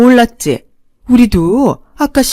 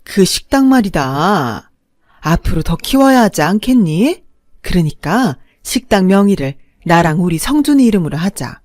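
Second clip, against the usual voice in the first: mother-in-law grabbing the restaurant, loud and condescending; 2 semitones higher, 4 dB louder than usual. Acted. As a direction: lecture her like she's useless.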